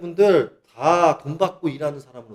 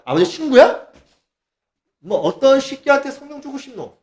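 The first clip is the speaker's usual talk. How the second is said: higher, cheeky and rude question; crude brash mockery; 7 semitones higher than usual. Preacher mocks a disrespectful plea to God, higher and brash. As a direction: fling it out like a rude kid. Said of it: "이래야 돼?".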